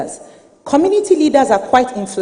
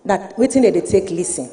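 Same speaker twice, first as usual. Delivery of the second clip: Nigerian Pidgin; 3 semitones lower than usual. Real, not acted. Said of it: "I'm going to speak in Pidgin".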